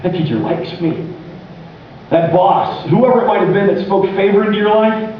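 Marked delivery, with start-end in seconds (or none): 0.0-1.1 awed hush. Retold or imitated.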